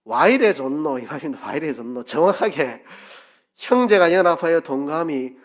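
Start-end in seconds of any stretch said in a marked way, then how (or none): 0.0-1.0 lively Gyeongsang dialect exclamation; 경상도 사투리로 감탄하듯. Shown as a demonstration. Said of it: "경상도 말로 하면 어찌 됩니까?". 1.5-2.0 softer Gyeongsang dialect repeat; 경상도 사투리로 음미하듯. Shown as a demonstration. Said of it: "경상도 말로 하면".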